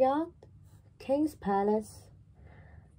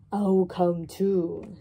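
lightly voiced rooster; 3 dB louder, slower than usual. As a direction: say it steadily like a plain old rooster. Rooster voiced in children's story.

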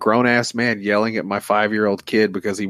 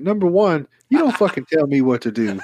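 belligerent; 6 semitones higher than usual. Pretend. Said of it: "I probably would've got belligerent".

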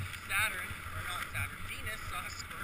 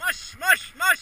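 dog sled musher; 11 semitones higher, 15 dB louder, much slower than usual. Real, not acted. Musher calling sled dogs.

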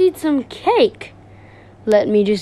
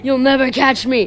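laughing taunt. Acted. Fleeing while laughing.

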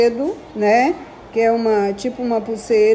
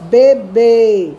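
Bebê with the last syllable bê said louder; stress on bê; 6 dB louder than usual. Shown as a demonstration. Teacher showing first graders the strong syllable of Bebê. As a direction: lean on the final bê of Bebê. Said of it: "mais forte, o último B".

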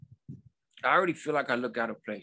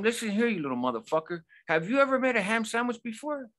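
losing it; 9 semitones higher than usual. Retold or imitated. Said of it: "And I lost it".

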